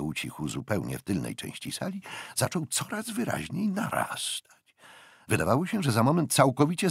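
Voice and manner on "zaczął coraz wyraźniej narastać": usual speaking voice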